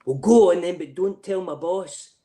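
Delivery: giving in, but with a wink; mock conspiratorial reply. Soldier handing over whiskey, slow conspiratorial aside. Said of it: "I went".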